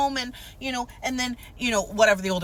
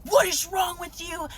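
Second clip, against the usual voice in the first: much higher mock scolding voice; imitated scolding mom; 9 semitones higher than usual. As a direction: snap at the kid like the mother. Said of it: "proceeds to scream at that kid".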